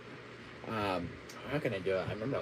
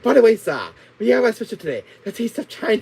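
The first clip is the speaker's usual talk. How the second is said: put-on loud raised Chinese accent sales pitch; 5 semitones higher, 4 dB louder than usual. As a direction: push the daily special in a Chinese accent. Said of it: "do a Chinese accent".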